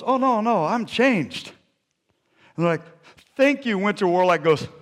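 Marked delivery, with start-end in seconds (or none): 0.0-1.5 high, eager protest; Winter Warlock. Acted. Reformed warlock to frightened people, eager reassurance. 3.4-3.8 grateful townsfolk. Acted. Voicing people greeting the warlock.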